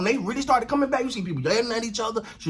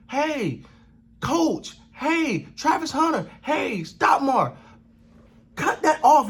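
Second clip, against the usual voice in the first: calling out; 3 semitones higher, much slower than usual. Pretend. Host yelling advice to Colorado defenders, calling out. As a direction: shout instructions at players from the sideline.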